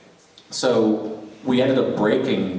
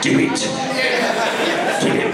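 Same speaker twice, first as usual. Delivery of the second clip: hammed-up villain impression, higher pitched; Palpatine; 13 semitones higher than usual. Joking as the Pope turned evil emperor, villain impression. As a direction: play the scheming dark lord. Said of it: "We called him Pope Palpatine".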